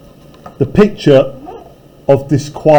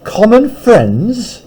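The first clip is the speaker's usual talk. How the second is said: a slow, higher questioning echo; hoarse echo; 6 semitones higher, much slower than usual. Acted. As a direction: echo it back in disbelief, slowly. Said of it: "echoed Mister Hyde, a little hoarsely".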